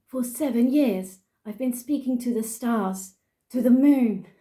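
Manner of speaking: put-on theatrical English-accented recital; mock-poetic English accent. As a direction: recite in an English accent, building to the last word. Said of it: "I'm gonna do it in an English accent".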